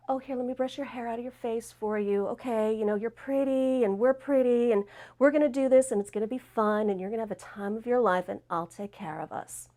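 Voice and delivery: softly reassuring, run-on sweet talk; mock-sweet soothing patter; charming, coaxing girlfriend. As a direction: coax gently, mildly imitating a friend. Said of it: "she just had this way of charming me".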